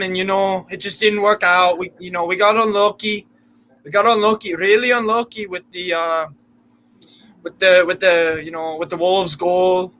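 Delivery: badly faked Geordie, slipping towards Irish and Scottish; bad Geordie accent. Shown as a demonstration. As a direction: attempt a Geordie accent, still sounding very American. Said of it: "give us your best Geordie accent".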